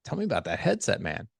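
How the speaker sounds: eager, impressed buddy tone; admiring. Shown as a demonstration. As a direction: ask like you think it's cool. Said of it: "when I use that voice tone".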